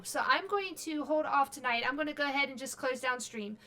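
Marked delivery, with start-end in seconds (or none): 1.9-3.6 talking through hiccups; hiccuping between words. Real, not acted. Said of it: "Excuse me, I got the hiccups".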